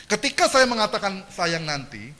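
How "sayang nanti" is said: "Sayang nanti" read evenly as one phrase; no intonation. Shown as a demonstration. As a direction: read "Sayang nanti" without any expressive tune. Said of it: "ini nggak ada intonasinya kan". ("Sayang nanti" dibaca tanpa intonasi)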